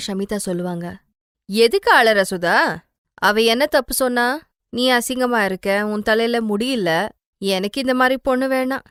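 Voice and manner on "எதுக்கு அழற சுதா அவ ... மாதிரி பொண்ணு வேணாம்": mother coldly scolding her crying daughter. Acted. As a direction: tell her off without pity.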